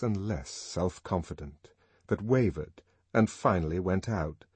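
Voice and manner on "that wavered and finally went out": usual speaking voice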